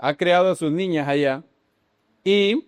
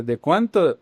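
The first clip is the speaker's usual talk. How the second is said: badly attempted Argentine accent; a rough stab at Argentine Spanish; slower than usual. Shown as a demonstration. Brother asking how much, in a poor Argentine accent. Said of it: "Qué pésimo acento argentino tengo".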